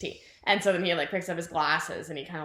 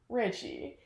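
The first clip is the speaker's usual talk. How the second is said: acted gentle bad news; 10 dB quieter than usual. Bev gently breaking bad news.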